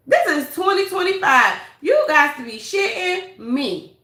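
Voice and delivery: incredulous grilling. Real, not acted. Incredulous questions to the absent woman.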